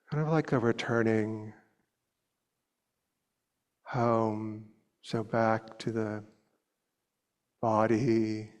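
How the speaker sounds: unhurried meditation guidance with long pauses; guided meditation. Real, not acted. Teacher inviting students to soften the body, unhurried meditation voice. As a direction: lead them gently, leaving long silences between short phrases.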